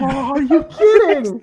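dismayed disbelief. Real, not acted. Dismay at a wrong answer.

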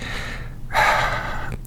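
long, soft breathy exhale; spent, shaken-patient sigh, played for laughs; acted heavy sigh. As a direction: let out a long mock-recovering breath. Acts patient after the exam.

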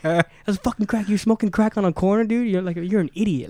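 high, exasperated telling-off, acted out; retold indignation. Telling off a crack smoker on the corner, retold indignation. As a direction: hammer the point in mock outrage. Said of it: "I was so pissed at her".

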